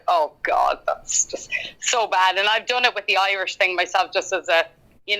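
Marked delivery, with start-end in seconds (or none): 0.1-2.4 breathy self-mocking whisper, drawn out; an unvoiced groan of embarrassment at a bad attempt; cringing whisper. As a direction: hush it as if embarrassed at yourself. Retells her own cringing reaction.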